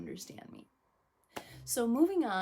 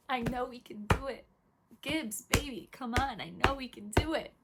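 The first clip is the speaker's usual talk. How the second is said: higher, pleading rally cry; impassioned pep talk; 3 semitones higher, 4 dB louder than usual. Real, not acted. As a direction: urge the team on, insistent and raised. Rallying her losing football team.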